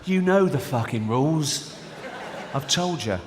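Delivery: slow, laughing angry dad; a laughing send-up of a fifties dad. Retold or imitated. God as fifties dad scolds the kids, laughing slow. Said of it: "he's like fifties dad".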